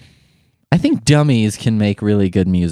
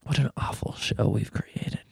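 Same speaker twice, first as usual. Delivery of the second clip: whispered to himself, much softer; 13 dB quieter than usual. Real, not acted. Host whispering about his own show after a sigh. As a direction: breathe it out as a rueful aside.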